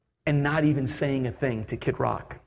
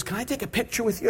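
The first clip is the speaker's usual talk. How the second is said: tag; 5 semitones higher, 4 dB quieter, faster than usual. Retold or imitated. Voices the eager stewardess.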